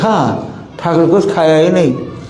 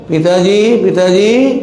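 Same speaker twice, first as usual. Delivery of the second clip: put-on crying child calling; 3 semitones higher, slower than usual. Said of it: "रोते रोते क्या बोलता है".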